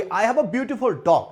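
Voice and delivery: each word stretched out very slowly; slow model sentence. Shown as a demonstration. Teacher dictating the example sentence to the class, very slowly. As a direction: dictate it so students catch every word. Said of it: "আমরা যদি বলি".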